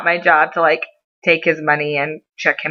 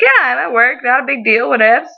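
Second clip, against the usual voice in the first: lightly voiced mom, higher pitched; unbothered mom; 5 semitones higher than usual. Mom at work answering her daughter, lightly imitated nonchalance. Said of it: "And she's like".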